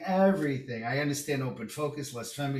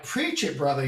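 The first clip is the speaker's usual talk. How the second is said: cheering him on; 6 dB louder than usual. Retold or imitated. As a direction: call out like a churchgoer backing the pastor. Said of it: "And I'm like".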